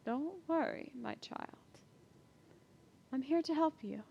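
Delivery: soft, hushed comforting voice; gentle reassurance. Acted. Lady Sabina comforting the captive girl, soft reassuring voice. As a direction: soothe the frightened girl softly.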